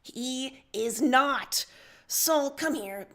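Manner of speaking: loud, slow insistence; misplaced voice. Acted. Voiced by mistake for the captain defending Sullux, loud. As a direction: plant your feet and insist. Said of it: "sorry, that was Nepeta".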